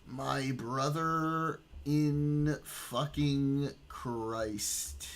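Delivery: slow, stretched-out exasperation; drawn-out disbelief. Real, not acted. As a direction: drag every word out in disbelief. Disbelief at the texts.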